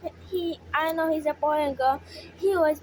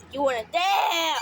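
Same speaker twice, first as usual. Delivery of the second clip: mock challenge; 2 semitones higher than usual. Real, not acted. Challenging the squeaking bird.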